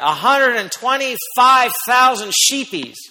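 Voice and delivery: drawn-out amused wonder; playful slow marvel. Shown as a demonstration. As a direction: let the crowd picture a sea of sheep. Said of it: "But just think of that".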